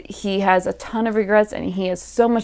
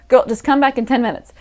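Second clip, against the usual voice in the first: higher and fast, impatient; quick mock brush-off to a friend; 3 semitones higher, faster than usual. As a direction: hurry her away, mildly flustered. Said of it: "I would have been like".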